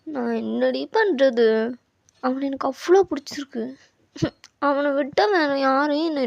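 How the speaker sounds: put-on animated young woman venting to her friend; heartfelt, worked-up venting in character; lovesick girl, exasperated. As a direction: complain with lovelorn frustration.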